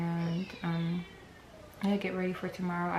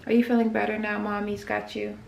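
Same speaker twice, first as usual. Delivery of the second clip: gentle, a little louder; 4 dB louder than usual. Real, not acted. Soothing baby.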